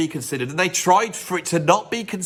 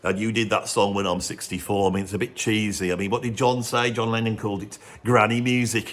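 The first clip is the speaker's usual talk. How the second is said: a rock drummer's voice; 6 semitones lower than usual. Retold or imitated. A drummer voiced teasing a bandmate.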